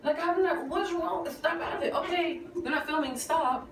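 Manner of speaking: imitating herself coaxing a friend out of tears; pleading with friend. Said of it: "I was like".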